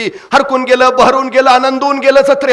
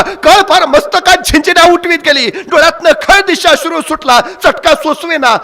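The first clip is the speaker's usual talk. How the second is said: ordinary delivery, nothing marked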